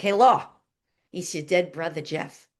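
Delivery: imitated New York brother, punching the opening call; heavy New York accent. Dead brother greeting sister from beyond, heavy New York accent. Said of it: "with his heavy New York accent".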